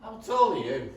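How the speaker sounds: excited laugh. Acted. Sudden idea, laughing.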